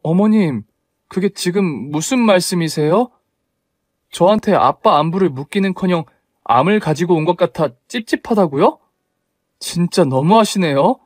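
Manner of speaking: wounded daughter-in-law pushing back at mother-in-law; indignant protest. Acted. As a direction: stand up to her, voice rising.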